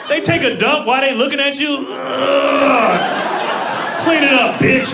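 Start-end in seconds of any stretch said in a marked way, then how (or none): 1.9-4.9 loud, high, straining demand; rude baby. Retold or imitated. Baby ordering parent to clean up its mess, rude shout. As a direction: shout it as a bossy baby mid-grunt. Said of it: "I don't like how babies talk".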